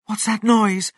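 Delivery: startled mother fox; alarmed question. Acted. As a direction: ask in sudden alarm. Mother fox hears diggers, alarmed.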